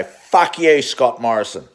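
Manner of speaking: loud, spat-out curse at the PM; angry outburst. Real, not acted. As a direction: fling it at him like an insult.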